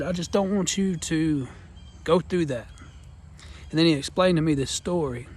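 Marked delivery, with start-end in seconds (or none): 0.0-2.7 tearing up. Real, not acted. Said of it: "Sorry, I'm tearing up".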